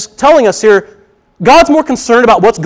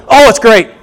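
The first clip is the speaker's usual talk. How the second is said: put-on cheery reply, pitched up a little; fake cheerfulness; 4 semitones higher, 4 dB louder than usual. Churchgoer hiding trouble from someone who asks, fake cheerful. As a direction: cover trouble with a quick, bright front. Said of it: "Have a smile on your face".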